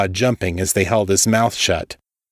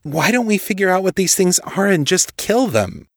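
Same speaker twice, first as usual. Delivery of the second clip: agitated; 10 semitones higher than usual. A narrator's reading. Kate pushing back, agitated.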